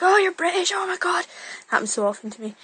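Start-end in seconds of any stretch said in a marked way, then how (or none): 0.0-1.3 mock amazement. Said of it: "Every single time they were like".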